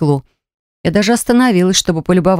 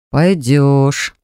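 confident drawl; 5 semitones lower than usual. Acted. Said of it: "слишком уверенно протянул Саша".

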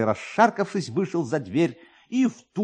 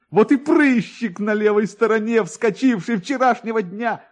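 higher and louder delighted exclamation; almost laughing with joy; 10 semitones higher, 6 dB louder than usual. A narrator's reading. Kovalyov spots the pimple on his nose, higher and louder with joy. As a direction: burst out near laughter. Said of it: "Майор чуть не засмеялся от радости".

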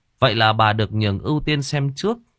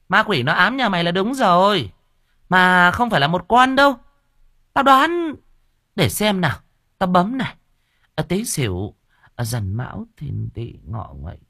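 scoffing medium; 10 semitones higher than usual. Acted. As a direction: count it off on your fingers, grandly. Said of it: "Hừ một tiếng".

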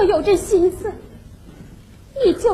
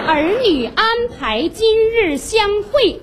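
slow, measured verse reading; letter recitation; 3 semitones higher, slower than usual. Acted. Mother reading out the children's matchmaking letter, slow recitation. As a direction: declaim it word by word, drawn out.

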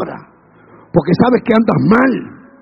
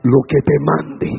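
booming voice of God; 4 dB louder than usual. Acted. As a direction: thunder the order down. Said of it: "Y Jehová le dice".

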